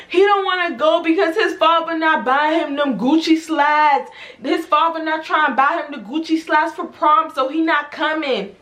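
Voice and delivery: whiny imitated tearful complaint; mock crying. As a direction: whine it like a client crying to a friend. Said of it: "she starts crying. She's like".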